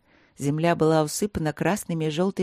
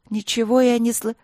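put-on higher-pitched, huffy girl breaking off mid-word; cut-off protest; 6 semitones higher, 4 dB louder than usual. A narrator's reading. Princess falling silent as she hears the music, huffy protest. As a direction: protest crossly, then stop short. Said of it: "принцесса замолчала".

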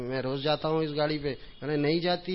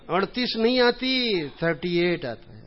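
put-on puzzled child; 3 semitones higher, 3 dB louder, slower than usual. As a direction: sound helplessly puzzled. Child voiced, can't understand Urdu number. (الجھی ہوئی بچی، آہستہ اور اونچی)

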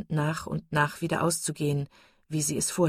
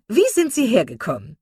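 put-on loud, hearty older woman; hearty old matron; 7 semitones higher, 8 dB louder than usual. A narrator's reading. Mrs Jennings greeting the Steele sisters, loud and hearty. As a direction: boom it out like a jolly matron.

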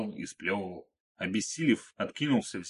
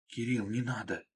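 softer hushed plea; muffled; 6 dB quieter than usual. Acted. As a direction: hold the voice down as you beg him to stop. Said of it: "приглушённо произнесла Марго".

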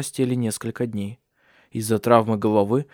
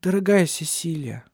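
high, tender address; quiet, touched; 6 semitones higher than usual. A narrator's reading. Ursula moved by Cecilia's grief, quietly tender. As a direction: say it gently, moved. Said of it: "тихо произнесла она".

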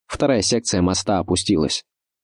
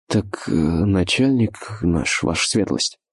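slow, halting and flustered; slower than usual. Acted. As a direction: stumble over the words nervously. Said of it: "смешался солдат".

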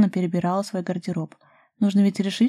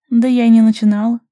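snorting retort; 4 semitones higher, 10 dB louder than usual. A narrator's reading. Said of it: "фыркнула Даша".

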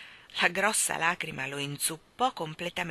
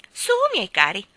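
sweet different voice; 3 semitones higher, 10 dB louder than usual. Acted. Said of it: "con una voce del tutto diversa".

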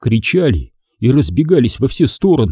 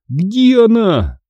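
high, drawn-out frantic cry; narrated yell; 10 semitones higher, much slower than usual. A narrator's reading. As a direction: yell it out slowly, voice pitched way up. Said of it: "заорал я". (протяжный высокий крик, без полной громкости)

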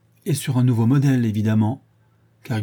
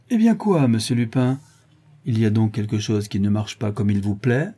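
mocking. Mocking voice arrives suddenly.

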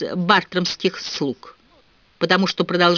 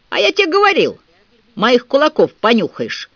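booming; 7 semitones higher, 4 dB louder than usual. A narrator's reading. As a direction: bellow the promised threat. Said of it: "прогудел Дадли". (громко и раскатисто, с угрозой)

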